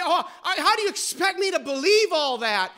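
a hint of a disbelieving listener; incredulous skeptic. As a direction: scoff like a doubter. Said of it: "And you say".

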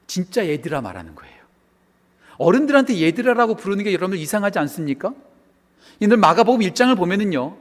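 usual speaking voice

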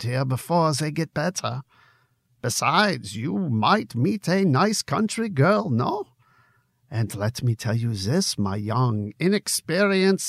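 Conrad the barkeep in a lightly put-on German accent; a loose, half-hearted German accent, friendly and teasing. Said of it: "for my German accent".

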